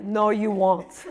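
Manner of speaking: slow, laughing blunt reply; deadpan no, breaking into laughter; laughing through it. Retold or imitated. Amsterdam guy dismissing her, laughing.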